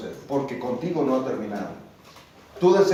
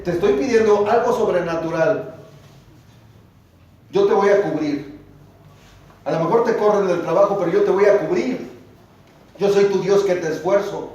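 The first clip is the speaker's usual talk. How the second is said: voz de Dios; 4 semitones higher, 4 dB louder than usual. Acted. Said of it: "Y Dios dice".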